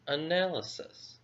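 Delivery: analysis said whole after the syllable split; model word. Shown as a demonstration. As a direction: join analysis back into one smooth word. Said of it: "Analysis has four syllables".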